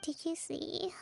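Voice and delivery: sleepy whisper. Acted. Talking in her sleep.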